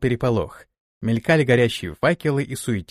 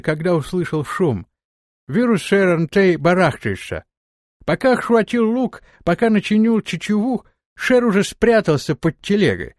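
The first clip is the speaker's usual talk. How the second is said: steppe warrior voice; 5 semitones higher, 3 dB louder than usual. Acted. Erzai voice.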